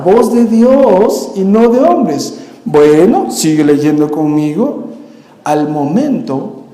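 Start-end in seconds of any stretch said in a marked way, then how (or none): 0.0-2.3 "voz de Dios y no de hombres" drawn out slowly, falling heavy on "hombres"; weighty slow fall on "hombres"; slow solemn. Shown as a demonstration. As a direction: stretch out "voz de Dios y no de hombres" like a grave verdict.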